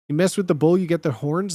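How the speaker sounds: a light macho threat, lightly voiced; white boy bully threat. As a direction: puff up like a teenage bully, lightly. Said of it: "That's the worst white boy you know".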